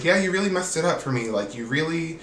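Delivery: high, fast whiny accusation; mocking Britt. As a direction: needle her like a petty grudge-holder. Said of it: "and she's like".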